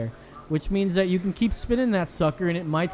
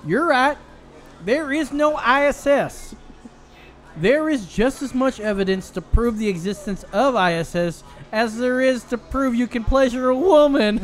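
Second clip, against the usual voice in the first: redneck country voice; 6 semitones higher than usual. Pretend. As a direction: read it like an old redneck. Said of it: "old-fashioned, uh, redneck, country voice here".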